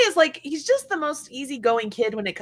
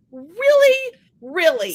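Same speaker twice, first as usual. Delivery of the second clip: much higher and louder mock indignation; mock outrage; 6 semitones higher, 5 dB louder, slower than usual. Ignored by her own dog, hammed-up indignant cry. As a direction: throw it out in playful disbelief.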